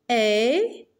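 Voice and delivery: "Épingle" split into é, pin, gle; long rising first syllable of "Épingle", then pauses. Shown as a demonstration. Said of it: "dans la première syllabe". (« Épingle » découpé syllabe par syllabe)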